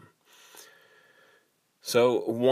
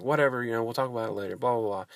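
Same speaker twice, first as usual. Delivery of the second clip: retold offhand brush-off; dismissive; 3 semitones higher, much faster than usual. Husband trying to get off the phone with wife, dismissive. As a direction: brush the caller off, mildly impatient. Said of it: "just trying to get off the phone".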